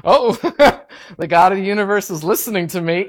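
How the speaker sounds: laughing, quick, amazed; laughing amazement. Retold or imitated. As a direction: laugh through the realization. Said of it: "And I was like".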